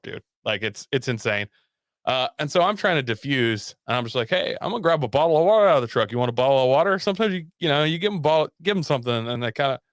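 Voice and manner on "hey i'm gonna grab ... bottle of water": quick, upbeat and louder, casually changing the subject; breezy defusing. Retold or imitated. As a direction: brightly offer the water to calm her down. Cheerful diversion, defusing the woman.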